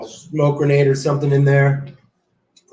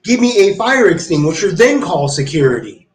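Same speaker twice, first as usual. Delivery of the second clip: insistent demand; 4 semitones higher than usual. Retold or imitated. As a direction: push back hard on her. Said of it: "I was like".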